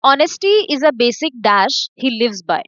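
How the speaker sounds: very slow, each word set apart; slow read-aloud. Shown as a demonstration. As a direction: read the blank sentence slowly to the class. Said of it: "teacher reads the question sentence". (बहुत धीरे पढ़ना)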